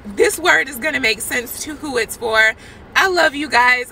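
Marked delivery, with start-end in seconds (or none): 2.9-3.9 louder, tearful I love you; choked up, pushing words through tears; crying. Real, not acted. Telling viewers she loves them, crying. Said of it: "I'm gonna get myself together".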